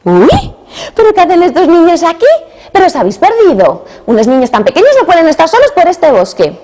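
high, loud startled woman; startled concern for lost children; a woman finding tiny children at her door; surprised ogre's wife. Acted.

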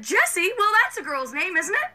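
put-on innocent toddler voice. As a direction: play dumb and sweet. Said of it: "customer service voice".

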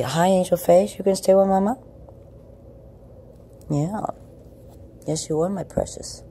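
very high cooing pet voice. Real, not acted. Owner with sore back asks her cat to snuggle, very high baby talk. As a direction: sweet-talk the kitty into cuddling.

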